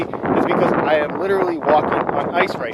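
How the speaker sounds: shaky voice, freezing outdoors; shivering from cold. Real, not acted. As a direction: talk while shivering in the wind. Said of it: "if I'm a little bit shaky".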